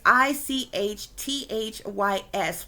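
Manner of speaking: I C H T H Y S letter by letter, slowly; spelled out. Shown as a demonstration. Speaker spells the symbol's name for viewers, slowly spelled-out I C H T H Y S. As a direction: spell I C H T H Y S with each letter separate. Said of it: "It's spelled, like I said".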